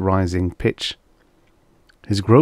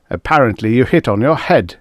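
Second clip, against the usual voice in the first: rasping; 3 semitones higher, 5 dB louder than usual. Acted. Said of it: "rasped Markley".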